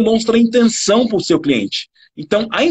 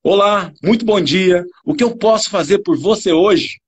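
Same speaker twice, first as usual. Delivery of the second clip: intentional, emphatic greeting. Shown as a demonstration. Attendant welcomes a customer to the shop, emphatic and engaged. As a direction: lively welcome with melodic emphasis. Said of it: "a mesma frase numa entonação completamente diferente".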